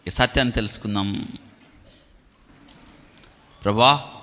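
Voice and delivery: measured, pleading prayer to God; solemn prayer. Real, not acted. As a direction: lead them into prayer, phrase by phrase with long pauses. Leads the congregation into prayer.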